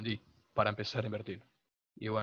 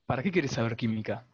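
louder, to be heard; to someone hard of hearing; 9 dB louder than usual. Real, not acted. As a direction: speak up clearly. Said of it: "habla más fuerte".

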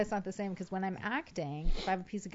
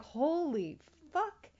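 shocked; 8 semitones higher, much slower than usual. Retold or imitated. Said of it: "that is the thing that I'm like".

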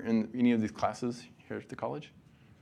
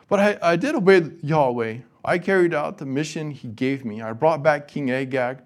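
higher and louder insistent denial; defensive protest; 4 semitones higher, 6 dB louder than usual. Acted. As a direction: protest your innocence, voice raised. Saul protesting to Samuel.

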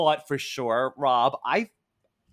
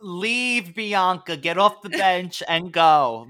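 high, loud, slow plea to leave; mock shout at Bianca; 5 semitones higher, 5 dB louder, slower than usual. Shouting at Bianca on her bench, urging her. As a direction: yell at her to go, hammed up.

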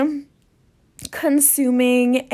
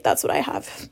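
under-the-breath whisper, much softer; muttered aside; 8 dB quieter than usual. Retold or imitated. To herself about the stranger's cancer, a soft unvoiced whisper. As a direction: whisper it to yourself, barely voiced. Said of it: "And I didn't say".

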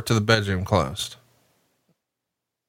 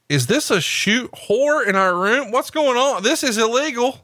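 slack-jawed shock; 10 semitones higher than usual. Retold or imitated. Host retelling his own stunned reaction, high mock shock. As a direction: gape in disbelief, pitch climbing. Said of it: "slack jawed as fuck".

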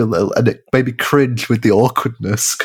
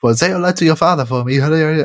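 imitating chatty locals; 5 semitones higher than usual. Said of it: "they're all going".

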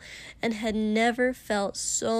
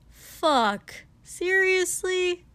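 higher, drawn-out wry disbelief; 9 semitones higher, 5 dB louder, much slower than usual. Acted. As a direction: say it wryly. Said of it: "Katsuki said wryly".

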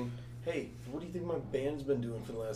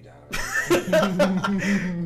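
laughing mock hate; 7 semitones higher, 10 dB louder, much slower than usual.

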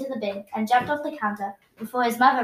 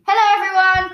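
cheerful greeting; 7 semitones higher, 8 dB louder, faster than usual. Acted. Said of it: "cried Dad".

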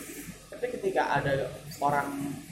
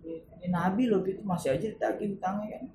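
grumbling while crying; 6 semitones higher than usual. Retold or imitated. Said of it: "Sambil ngedumel di jalan".

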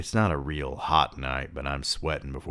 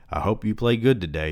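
dumb voice; 5 semitones higher, 4 dB louder than usual. A narrator's reading. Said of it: "in that dumb voice of his".

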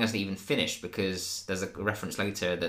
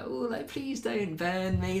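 mocking Jeremy; 11 semitones higher, slower than usual. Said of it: "the longer that Jeremy goes on about".

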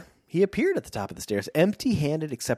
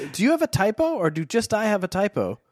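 surprised; 7 semitones higher, faster than usual. Real, not acted. Startled confusion at typo.

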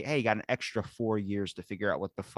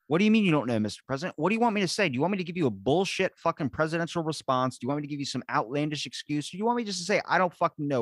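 high-pitched, indignant rhetorical questions; acted exasperation; 6 semitones higher, faster than usual. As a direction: pile up the questions in mock indignation. Acted retort to a pressing questioner.

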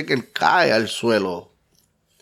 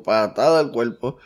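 ordinary talk

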